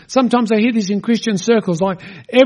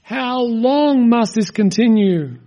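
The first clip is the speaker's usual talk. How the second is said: crying out; 3 semitones higher, much slower than usual. Retold or imitated. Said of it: "are just gonna cry out".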